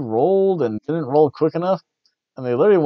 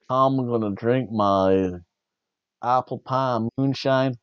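slow, lightly voiced Tennessee drawl; mock Lana's Tennessee twang, slowly; Tennessee accent; 2 semitones lower, 3 dB quieter, slower than usual. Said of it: "that's that Tennessee accent".

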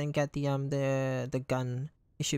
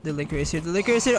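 rising panicked yell; scared yelling; 5 dB louder, much faster than usual. Real, not acted. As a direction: yell it as fear builds. Chased by zombie again.

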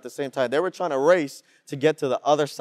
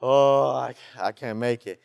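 worn out; 4 semitones lower than usual. Retold or imitated. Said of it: "And he's like".

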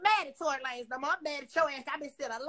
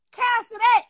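sharp loud cutoff; 4 semitones higher, 8 dB louder, slower than usual. Real, not acted. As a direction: snap it off loud and high. Angry rant at online critic.

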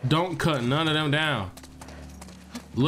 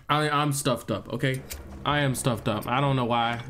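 blocked nose; 2 semitones lower than usual. Real, not acted. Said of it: "if I sound weird".

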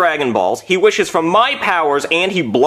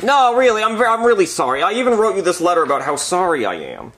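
earnest begging to be forgiven; pleading apology; 4 semitones higher than usual. Acted. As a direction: plead to be believed.

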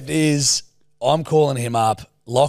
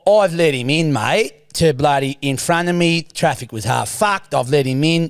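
Stephen's voice. Acted. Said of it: "it's Stephen's voice".

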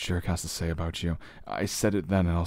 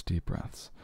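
soothing whisper; 7 dB quieter than usual. Acted. Calming her breathing.

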